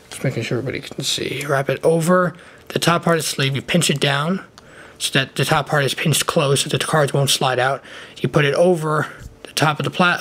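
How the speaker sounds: wearing a retainer lisp; talking through a retainer. Real, not acted. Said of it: "Sorry about the lisp".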